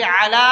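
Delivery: "علی" with clear throaty ain; correct pronunciation. Shown as a demonstration. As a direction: sound the first letter of "علی" fully. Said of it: "علی لفظ کیا ہے؟".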